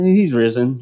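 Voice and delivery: "he's risen" tossed off with no weight; offhand, underwhelmed. Pretend. Pastor mocking a ho-hum Easter announcement, offhand. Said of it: "I don't think it was a".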